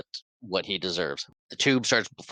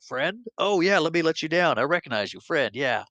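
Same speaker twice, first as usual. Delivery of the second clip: monster voice; 8 semitones higher than usual. Retold or imitated. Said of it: "And Blanca's like".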